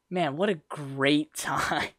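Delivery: slow, drawn-out mock enthusiasm with a chuckle; sarcastic. Student joking about being stuck with strangers, sarcastic. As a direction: stretch it out with dry sarcasm. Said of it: "that's sarcasm".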